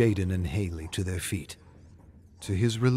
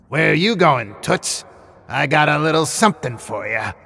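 high, loud, leering villain voice; creepy puppet villain; 6 semitones higher, 5 dB louder than usual. Acted. Killer puppet Ashy Slashy taunting Haley at the door, leering high voice.

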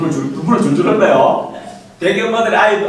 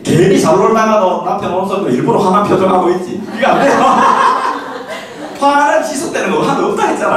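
laughing lecturer; 4 semitones higher than usual. Real, not acted. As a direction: laugh through the point.

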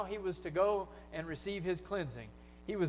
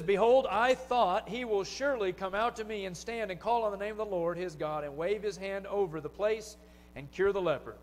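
hammed-up outrage of a proud general; mock fury, leaning hard on Behold; furious Naaman; 3 semitones higher, 4 dB louder than usual. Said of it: "Naaman was furious".

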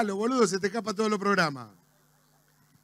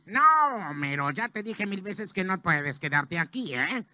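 Moe; 5 dB quieter than usual. Acted. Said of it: "Moe, ¿me puedo quedar aquí?". (tabernero de dibujo animado, bajo y más grave)

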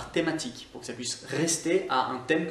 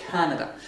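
Canada stressed on its opening syllable; stress on first A. Shown as a demonstration. Teacher repeats the word for learners, stress on the first A. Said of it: "L'accentuation se fait sur le A".

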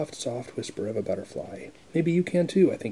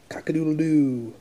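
rooster crow; 4 semitones higher, 5 dB louder than usual. Acted. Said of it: "He can sound like a rooster".

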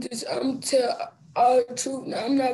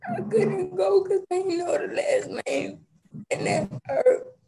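tearful plea in court; crying; 3 semitones higher than usual. Real, not acted. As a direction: voice catching on tears. Boy tearfully explains missing funeral.

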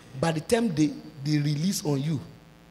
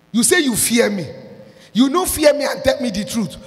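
scolding the ushers; 5 semitones higher, 3 dB louder than usual. Retold or imitated. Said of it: "I say".

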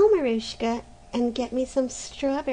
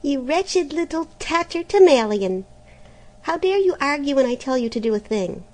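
higher, much louder raging threat; furious yelling; 7 semitones higher, 5 dB louder than usual. A narrator's reading. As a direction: shout the threat in fury. Stepmother scolding again.

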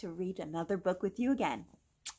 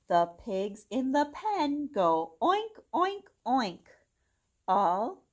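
bright, singsong storybook read; gentle storytime reading voice; reading to children. Acted. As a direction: read it aloud to little kids. Reads picture book to children.

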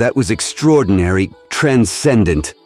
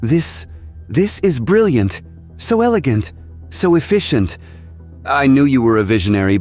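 awed delight; 5 semitones higher than usual. Acted. Doctor marvels at the villain's plan.

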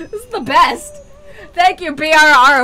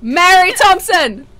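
drawn-out call, a little raised; taunting call; slower than usual. Real, not acted. Player taunting a ghost to make it kill their friends, taunting call. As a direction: call out the name slowly to summon it.

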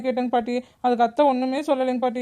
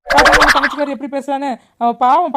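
much louder indignant outburst; angry protest; 7 dB louder than usual. Acted. Wife complains to husband about his sister, loud and indignant. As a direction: snap back at the husband in outrage.

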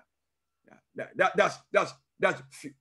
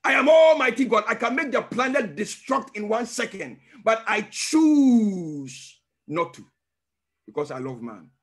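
voice of God; 4 dB louder than usual. Retold or imitated. Voicing God speaking.

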